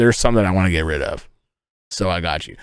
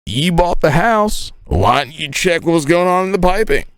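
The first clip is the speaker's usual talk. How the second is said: put-on teen me protesting; 7 semitones higher than usual. Boy protests to mom about the toilet, mock whiny higher voice. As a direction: play your younger self pleading innocent, hammed up. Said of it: "And I was like".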